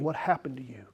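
unvoiced hushed question to the listener; whisper. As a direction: lean in and whisper it. Preacher's intimate question.

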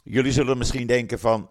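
just after a sip of water; talking right after drinking; while sipping a drink. Real, not acted. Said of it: "Even een slokje water".

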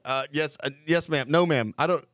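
halting, anxious mock obedience; tongue-tied recruit. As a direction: mimic a flustered recruit fumbling the answer. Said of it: "so tongue-tied".

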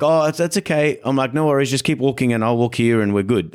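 high, light and cheerful; breezy reassuring. Retold or imitated. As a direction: brush it off with a smile. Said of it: "brushing off the angry lady".

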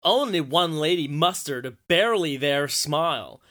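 slow, loud put-on American accent; mock commenter accent. Podcaster reading a snarky online comment aloud, in a put-on American accent. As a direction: read it out in an exaggerated American accent. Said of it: "read them in the accents, I think".

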